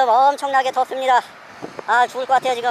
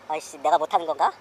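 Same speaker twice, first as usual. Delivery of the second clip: low muttered frustration; cursing under breath; 9 semitones lower, 7 dB quieter, faster than usual. Real, not acted. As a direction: grumble quietly to yourself. Frustrated self-talk.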